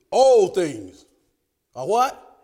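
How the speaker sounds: questioning call to the room; call to congregation. Shown as a demonstration. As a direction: ask it out to the pews. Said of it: "I didn't hear that".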